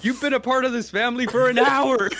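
high, laughing incredulous retort; laughing at the groom's claim; laughing disbelief. Retold or imitated.

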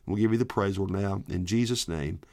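spoken prayer. Real, not acted. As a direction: pray simply, easing down toward the amen. Leads an opening prayer.

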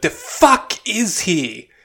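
imitating Gaga's Russian accent, drawn out; mock Russian accent. Mocking Gaga's film line, in a put-on Russian accent. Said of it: "it sounded exactly like the way Gaga said that line".

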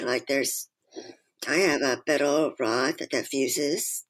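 muffled through a ventilator mask; speaking through a breathing mask; face mask. Real, not acted. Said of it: "my voice sounds a little different because I'm wearing a mask".

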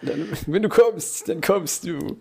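high, quiet mock-sage voice; lightly voiced sage platitude; mock wise voice. Mocking the tautology.

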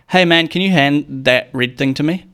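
confident, clearly pronounced request; clear confident ask. Shown as a demonstration. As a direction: speak up, every word clear and direct. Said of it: "Like that".

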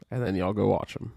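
blocked nose, congested voice; stuffy nose. Real, not acted. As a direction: talk through a stuffy nose. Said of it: "I'm very stuffy".

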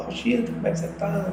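put-on quick, high, chirpy greeting of old friends; a light, quick imitation of friends saying hello; cheerful friends greeting. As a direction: play the friends lightly, glad to see him. Friends greeting him at show.

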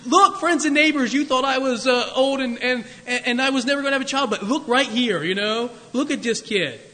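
proud boasting. Pretend. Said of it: "I would be out there".

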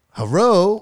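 high, loud caricatured Asian-accented greeting; mock Asian accent. Shown as a demonstration. Comic showing an accent you can't do, mock Asian accent. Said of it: "accents you can't do".

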